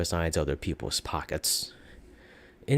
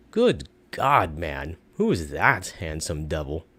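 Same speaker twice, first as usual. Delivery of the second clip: narrator voice; 3 semitones lower than usual. Acted. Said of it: "the narrator asks".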